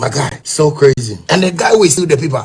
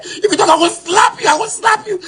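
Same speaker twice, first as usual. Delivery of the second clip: mock threat; 10 semitones higher than usual. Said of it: "he said".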